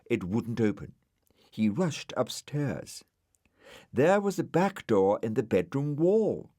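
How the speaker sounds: plain reading voice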